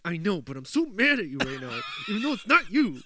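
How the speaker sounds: hammed-up scolding girlfriend; mock angry girlfriend. Imitating girlfriend blaming him for a dream, high and whiny. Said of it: "She's like".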